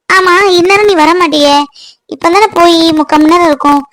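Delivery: mild surprise at an unexpected return; surprised questioning. Acted. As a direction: switch briskly to puzzled questions. Changes subject, surprised he is back early.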